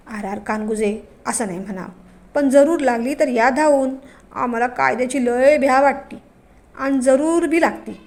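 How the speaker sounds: a hint of a sly, bossy village headman; village patil. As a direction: patil talking over his son, lightly voiced. Aaba the village patil voiced.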